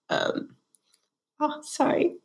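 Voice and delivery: high, broken teary apology; tears catching the voice; choked up. Real, not acted. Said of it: "I'm getting teary-eyed".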